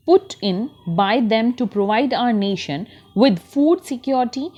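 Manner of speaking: put-on very slow, deliberate reading aloud for children; slow textbook reading. Teacher reads the passage to her class, very slow. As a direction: read each word out slowly for young learners.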